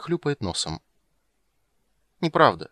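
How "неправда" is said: put-on high, loud childish denial; a little girl insisting; girl's protest. Ciri to Geralt, high childish denial. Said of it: "сказала она наконец".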